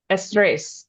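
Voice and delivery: "estrés" stressed on its last syllable; stress on final syllable. Shown as a demonstration. Learner checking a Spanish word with the teacher, "estrés" accented on the end. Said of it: "put the accent on the end".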